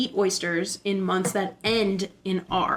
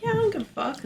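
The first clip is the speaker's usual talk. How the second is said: put-on careless baby oyster; 13 semitones higher, faster than usual.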